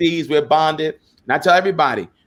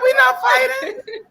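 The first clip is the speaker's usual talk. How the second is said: very high, drawn-out comic squeal; retold protest; slower than usual. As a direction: imitate a baffled protest in a squeaky falsetto. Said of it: "I was like".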